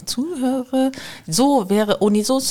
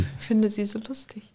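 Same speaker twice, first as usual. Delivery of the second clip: whispering; 5 dB quieter than usual. Real, not acted. Amused at own voice, whispering.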